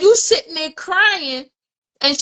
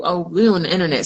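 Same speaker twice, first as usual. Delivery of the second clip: normal talking voice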